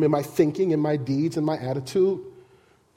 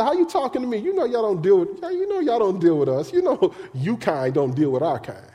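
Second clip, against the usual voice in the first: woman at the well; 3 semitones higher than usual. Retold or imitated. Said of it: "She said".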